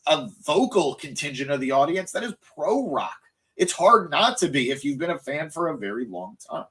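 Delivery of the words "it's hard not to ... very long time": voice cracking. Real, not acted. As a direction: voice breaking with emotion. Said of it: "My voice cracked".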